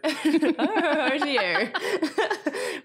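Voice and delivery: slow, laughing jolly Santa. Pretend. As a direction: stretch it out like Father Christmas. Christmas ho ho ho exchange.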